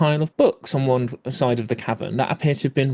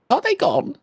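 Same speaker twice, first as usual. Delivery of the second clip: high, timid whisper of a question; small scared voice; 13 semitones higher than usual. Acted. GM voicing the hidden mage, a small nervous voice. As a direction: peep it out like a frightened hider. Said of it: "a small voice go".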